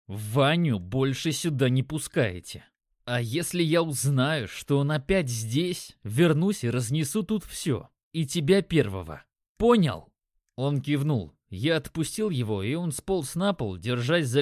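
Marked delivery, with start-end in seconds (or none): 0.1-10.1 measured, emphatic warning, rising to a hard ПОНЯЛ; each word chiselled. A narrator's reading. Narrator threatening the dealer, every word firmly chiselled. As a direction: spell out the threat firmly, punch the final "Понял". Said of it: "чеканя каждое слово".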